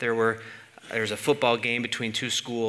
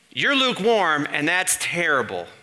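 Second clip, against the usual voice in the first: imitated sermon; 2 semitones higher, 4 dB louder than usual. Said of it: "the sermon would go like this".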